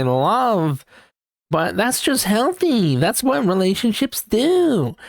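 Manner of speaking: high, breezy, slowed excuse-making; mock oblivious people. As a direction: parody people who shrug off problems. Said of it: "I know people who are like".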